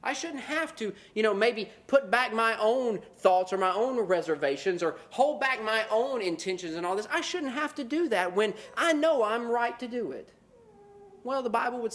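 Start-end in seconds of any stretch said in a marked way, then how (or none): 0.0-10.3 whiny excuse-making. Retold or imitated. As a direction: mumble self-justifying excuses. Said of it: "we say".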